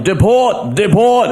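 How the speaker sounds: high chanting yell; high mock protest chant. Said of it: "started yelling".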